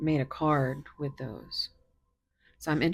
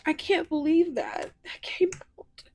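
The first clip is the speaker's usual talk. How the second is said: higher, louder disbelief; astonished; 9 semitones higher, 5 dB louder than usual. Real, not acted. Tarot reader amazed a card came out, astonished. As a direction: marvel at it out loud.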